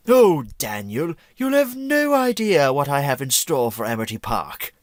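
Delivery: mock-sinister cartoon villain, lightly voiced; a hint of a gloating villain; Vlad Plasmius impression. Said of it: "Am I doing a Vlad Plasmius impression".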